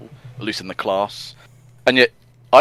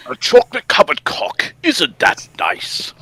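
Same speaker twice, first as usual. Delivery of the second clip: high, hammed-up cheerful ad voice; mock announcer; 8 semitones higher than usual. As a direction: say it like a cheesy TV host. Quoting the YouTube poop.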